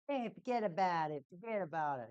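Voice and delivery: put-on light Jersey accent, forget about it; lightly imitating a Jersey accent. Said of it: "he's got that Joyzy".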